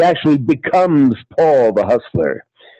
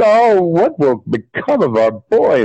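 lightly voiced mother, higher pitch; a hint of a higher-voiced mom; worried mother; 5 semitones higher than usual. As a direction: fret a little as the mother. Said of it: "his mother is saying".

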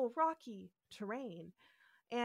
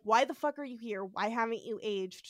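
blunt demand. Pretend. What Kirk is not saying to Ruth, blunt and brisk. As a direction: fire the questions at her bluntly. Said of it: "he's not saying this".

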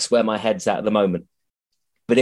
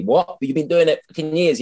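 raised pitch, disbelieving retort; incredulous challenge; 5 semitones higher than usual. Acted. Voicing a sceptic who questions his inexperience, incredulous. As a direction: question it in lively mock disbelief.

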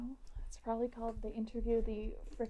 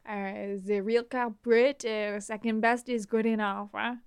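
slow, deliberate mock villain; drawn-out scheming conductor; a hint of a slow theatrical conductor; 7 dB louder than usual. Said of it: "how would the conductor talk?".

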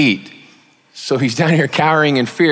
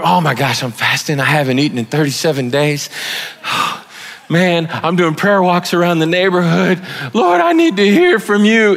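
mock desperate believer; 3 semitones higher than usual.

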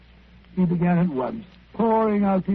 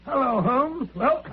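pitched up, pleased-with-himself greeting; triumphant; 4 semitones higher, slower than usual. Acted. Watson returning to Holmes from his errand, triumphant. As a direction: arrive back in triumph, with a little laugh. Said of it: "and in a triumphant mood".

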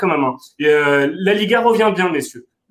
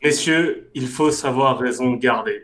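smooth, slow salesman pitch; carpet salesman tone; slower than usual. Acted. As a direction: sell it like a carpet dealer. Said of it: "il prend son ton de vendeur de tapis". (ton de vendeur de tapis)

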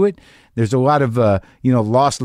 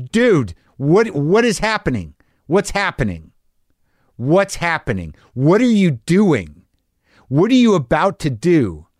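harsh self-talk; 4 semitones higher, slower than usual. Retold or imitated. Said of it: "self-talk ... a little harsh".

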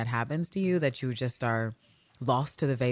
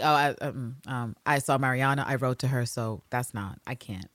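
trailing off softer and softer; mock awkward dodge; 3 semitones lower, 3 dB quieter than usual. Host mimicking Anne backing out, fading to a mumble. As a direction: fumble and fade out. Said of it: "she's like".

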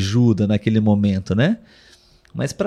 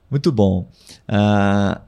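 ordinary delivery

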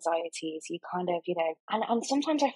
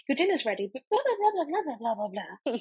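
mock nagging; 3 semitones higher, much faster than usual. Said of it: "I'm at the door like".

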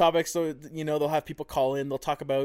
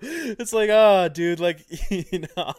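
laughing disbelief; 3 semitones higher, 6 dB louder, slower than usual. Real, not acted. Telling co-host about a hypocritical driver, laughing in disbelief. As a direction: exclaim it through real laughter. Cracking up at the absurd story.

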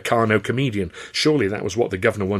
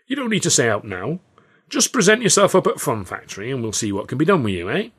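put-on old showman voice; 5 semitones higher, 3 dB louder than usual. Carno's voice.

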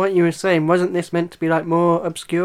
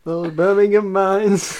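slow, hammed-up Yorkshire accent; mock Yorkshire accent; 2 semitones higher, slower than usual. Joking about Birmingham mines, mock Yorkshire accent. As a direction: draw it out like a Yorkshire lad. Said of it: "Yorkshire accent".

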